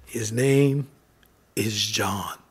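low, hushed whisper. Acted. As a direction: let it fall to a whisper. Quiet retelling of the written name.

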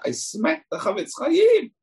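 the dawning horror of what he did; shocked realization. Retold or imitated. Guy realizes he hit rabbi.

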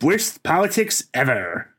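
a touch of nasal Comic Book Guy; pinched nasal nerd voice, lightly done. Pretend. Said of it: "mine was just doing a nasal voice".

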